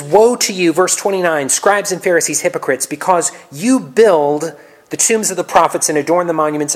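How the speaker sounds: loud, forceful denunciation; berating. Acted. Jesus condemns the Pharisees, in a loud rebuke. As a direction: preach the woes hard. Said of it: "Jesus appears to berate the Pharisees".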